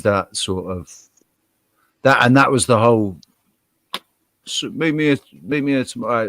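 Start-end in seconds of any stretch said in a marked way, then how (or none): 4.5-6.3 lightly attempted Manchester accent; imitated Mancunian lilt. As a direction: quote him in a Manchester accent. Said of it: "Actually, it was Manchester".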